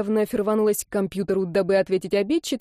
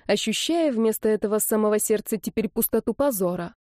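usual speaking voice

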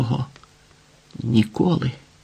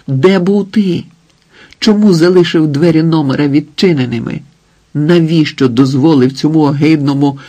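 raised, pressing angry questions; heated accusation; 3 semitones higher, 4 dB louder than usual. Acted. Wife confronting husband about the open door, heated accusation. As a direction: demand answers from him.

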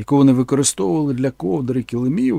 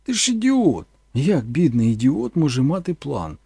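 exasperated; 3 dB louder than usual. Acted. Mother doubts her son, exasperated scoff. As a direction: scoff at the very idea. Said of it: "сказала вона".

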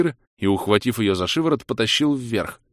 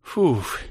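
relieved exhale; 4 semitones higher than usual. Acted. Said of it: "облегчённо выдохнула".

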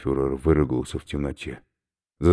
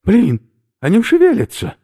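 much higher, loud panicked outburst; the snails are moving in his mouth; 10 dB louder than usual. Acted. Oberführer panics at moving snails, loud high outburst. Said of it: "Оберфюрер в панике".

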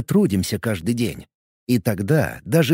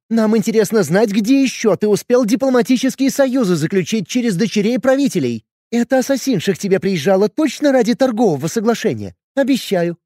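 angry; 10 semitones higher, 3 dB louder than usual. Acted. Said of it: "Разозлилась Юля".

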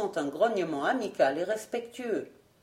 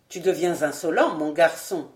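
low, gruff grumble, a little louder; grumbling rebuke; 4 semitones lower, 4 dB louder than usual. Acted. Old lord grumbles at the cheeky albino, low and gruff. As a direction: growl it down at the insolent boy. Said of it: "grommela-t-il".

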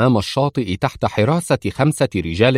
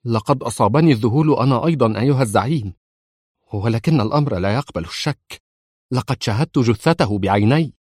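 trembling, fearful. Acted. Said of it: "مرتعدا خائفا".

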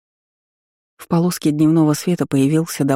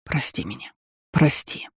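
much softer, breathless apology; guilty whisper; 3 semitones lower, 7 dB quieter than usual. A narrator's reading. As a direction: whisper your sorry, almost no voice. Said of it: "прошептал виновато".

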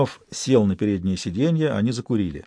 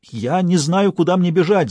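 higher, wailing in panic; 6 semitones higher than usual. A narrator's reading. Stas wailing to the detective on the phone, panicked. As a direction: wail it out, lost and scared. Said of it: "завопил Стас".

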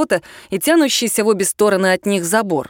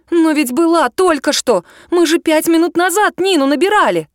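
higher and louder, growing alarm; 8 semitones higher, 4 dB louder than usual. A narrator's reading. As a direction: she just called Nina minutes ago, now alarmed and higher. No signal, girl alarmed.

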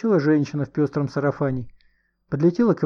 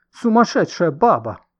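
loud, slow, raised-pitch insult; loud declaration; 5 semitones higher, 6 dB louder than usual. A narrator's reading. Cornered man insulting woman before a crowd, loudly. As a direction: declare it for all around to hear. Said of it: "громко заявил он".

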